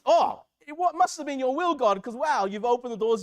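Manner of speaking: sudden acted-out "oh, wow" astonishment; amazed realization. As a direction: marvel as it dawns on you. Acting out realizing God's will.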